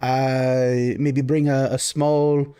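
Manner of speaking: lightly voiced baron, thinking aloud; a touch of fussing noble host; Baron, accommodating host. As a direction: arrange drinks haltingly for a guest. Baron orders drinks for guests.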